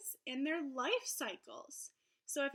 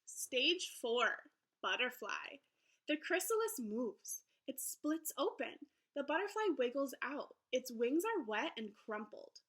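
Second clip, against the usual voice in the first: lively, sing-song picture book read-aloud; reading to children; 2 semitones higher than usual. Acted. Teacher reading a butterfly book to her class, lively storybook voice. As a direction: read it brightly to young listeners.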